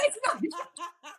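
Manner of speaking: high, drawn-out wail dissolving into laughter; quiet, laughing imitation of bawling; mock sobbing.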